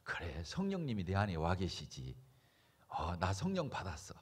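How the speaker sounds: low, soft self-talk; quiet inner realisation. Acted. Believer telling self the Spirit is within, quiet realisation. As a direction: say it inwardly, low and hushed.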